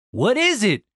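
high-pitched worried question; concerned. Acted. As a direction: ask in mild alarm. Randy alarmed at Denise's cries.

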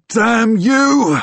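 loud, high, anguished curse; half snarl, half cry. A narrator's reading. Fighter curses ghost inside a young friend, half snarling, half crying. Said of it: "It is half snarl, half cry".

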